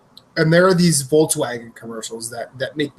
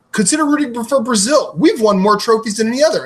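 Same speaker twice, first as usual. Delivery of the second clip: Brazilian pitchman; 6 semitones higher than usual. Retold or imitated. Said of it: "Brazil. There's, like".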